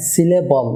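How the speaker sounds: "সিলেবল" with a thin first L and dark last L; thin middle L, dark ending L; light then dark L. Shown as a demonstration. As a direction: start the middle L light, hold the final L back. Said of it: "লাস্টের এলটি dark এল".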